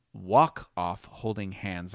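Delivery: slow, deliberate 'walk off holding hands'; careful clearer repeat. Real, not acted. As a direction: space out each word for clarity. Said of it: "didn't say that very clearly".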